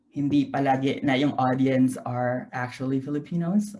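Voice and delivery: Tagalog sliding into English mid-sentence; easy Tagalog-English code-switching; Taglish. Real, not acted. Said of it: "is it okay if I do it in Taglish".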